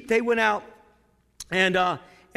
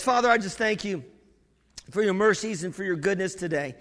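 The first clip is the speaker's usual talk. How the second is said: prayer. Real, not acted. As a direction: lead the church gently in prayer. Closing prayer.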